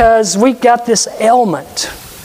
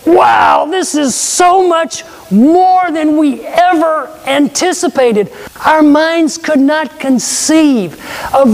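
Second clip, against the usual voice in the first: awed wonder; 3 semitones higher than usual. Pretend. Everyone in heaven marveling at God's glory, awed exclamation. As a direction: burst out in awe, then slow down to marvel. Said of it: "everyone in heaven's gonna go".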